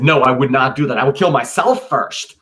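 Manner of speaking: emphatic refusal. Acted. Cletus refusing Brutus's request to kill him, loud. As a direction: push the idea away hard.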